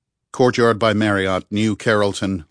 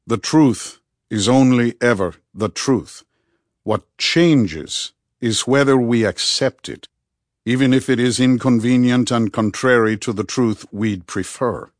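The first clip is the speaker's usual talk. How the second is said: Rudy, earnest and insistent; 2 semitones higher, 3 dB louder than usual. Acted. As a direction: press each phrase home with deliberate weight.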